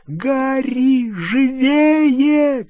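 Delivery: high urgent call; shout. A narrator's reading. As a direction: shout at him to hurry. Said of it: "крикнула Гермиона".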